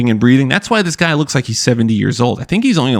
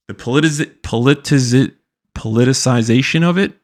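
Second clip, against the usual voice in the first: stumbling on a word; 2 semitones higher than usual. Real, not acted. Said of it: "damn, that was a tough one".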